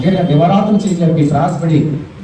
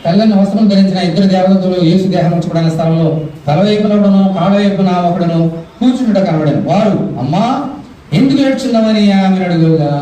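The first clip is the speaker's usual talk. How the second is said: scripture reading; 3 semitones higher than usual. Acted. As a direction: read the verse out to a congregation. Reads scripture aloud to congregation. (వాక్య పఠన స్వరం)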